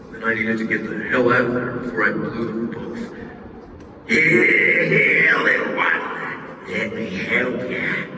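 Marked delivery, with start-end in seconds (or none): 4.0-8.0 roaring monster. Acted. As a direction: mock-friendly growl. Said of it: "Prison Pocket roared".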